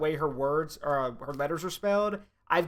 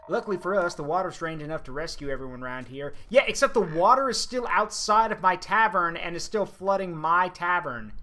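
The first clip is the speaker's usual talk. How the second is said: put-on southern accent; 5 dB louder than usual. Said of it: "I'm just doing a southern accent".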